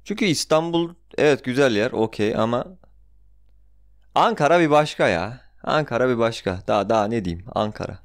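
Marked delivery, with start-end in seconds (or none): 4.2-5.4 excited. Real, not acted. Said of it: "Ankara sevgimi kusuyorum".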